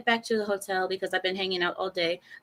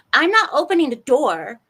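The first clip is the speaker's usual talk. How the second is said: mock loud refusal; 4 semitones higher, 7 dB louder than usual. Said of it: "She goes".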